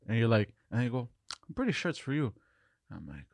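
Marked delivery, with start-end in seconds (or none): 1.5-2.3 imitated dream stranger. Voices the stranger in his dream.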